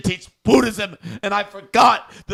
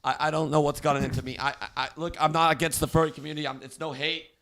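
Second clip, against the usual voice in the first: emotional; 4 semitones lower, 5 dB quieter than usual. Acted. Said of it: "I'm a little bit emotional right now".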